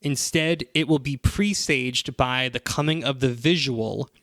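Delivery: solemn prophecy reading; scripture reading. Shown as a demonstration. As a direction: intone it like an ominous prophecy. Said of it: "so the next passage".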